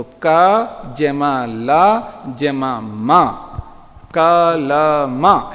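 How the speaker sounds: very slow, sounding out each syllable; teacher mimics a child learning to read, slowly; child spelling out letters. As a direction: imitate a small child joining letters. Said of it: "जैसे छोटा बच्चा होता है ना".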